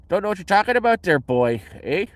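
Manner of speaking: high, loud, quick Canadian hick; hick Canadian accent. Shown as a demonstration. Showing off a Canadian accent, playing the hick. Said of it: "the hick there, the hick".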